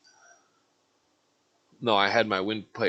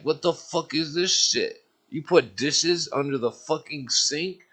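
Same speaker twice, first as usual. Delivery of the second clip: higher, slow angry disbelief; retold outrage; 6 semitones higher, slower than usual. At roommate over hidden dishes, slow outraged disbelief. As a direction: demand an answer, fed up.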